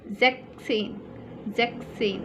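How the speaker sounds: ज़ेक सेन with no s; German sechzehn. Shown as a demonstration. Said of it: "एक एस यहाँ से remove है". ("एस" हटाकर ज़ेक सेन)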